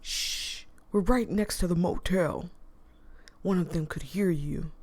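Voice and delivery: whispering. Acted. Characters hiding near motel.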